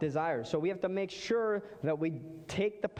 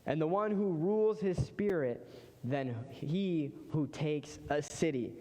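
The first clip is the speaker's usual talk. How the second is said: scripture reading. Acted. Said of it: "it says this in Proverbs".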